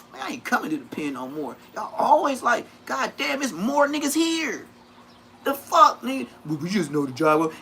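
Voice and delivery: high, complaining take; imitated whine. Telling the homies he's done with prison, whining. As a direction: mimic how he used to whine. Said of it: "I used to say it just like that".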